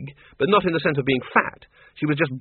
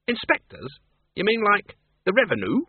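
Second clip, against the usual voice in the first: put-on incredulous old farm woman; 8 semitones higher than usual. Miss Flitworth incredulous.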